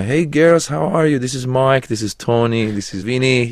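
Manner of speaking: high, bright-voiced pickup line; smooth flirting.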